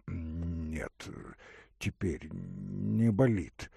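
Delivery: put-on a sick young man answering weakly; Ordynov's voice.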